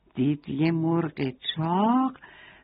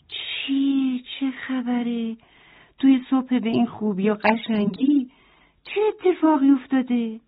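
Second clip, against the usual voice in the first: higher, puzzled goat voice asking what happened; surprised goat; 4 semitones higher than usual. Acted. Goat asking the hen and rooster what happened, surprised. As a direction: sound taken aback, a little higher. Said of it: "با تعجب به اونا نگاه کرد".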